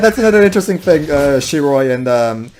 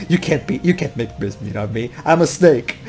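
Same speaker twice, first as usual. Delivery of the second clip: Lyric; 5 semitones lower, 4 dB quieter than usual. Retold or imitated. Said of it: "and Lyric is all going".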